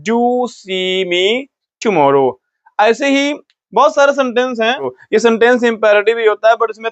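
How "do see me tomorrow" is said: very slow, do stressed; slow stern Do see me tomorrow; firm order. Shown as a demonstration. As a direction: press each word as a strict order. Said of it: "ये कड़ा आदेश होता है".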